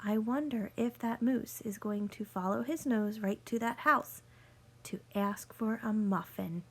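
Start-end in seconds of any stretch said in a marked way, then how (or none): 4.8-6.6 whispered. Acted. Teacher whispering to children, hushed suspense. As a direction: lean in and whisper the secret.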